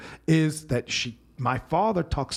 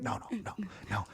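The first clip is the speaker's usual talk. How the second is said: mom refusing; 5 semitones higher, 12 dB quieter, faster than usual. Retold or imitated. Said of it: "I could just picture her".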